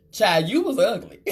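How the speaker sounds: teasing through a laugh; laughing tease. Real, not acted. Teasing the viewers about childhood photos, laughing. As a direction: chuckle it out, teasing.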